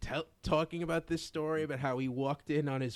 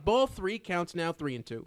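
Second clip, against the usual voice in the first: baseball play-by-play; 2 semitones higher, 3 dB louder than usual. Retold or imitated. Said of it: "So it's like".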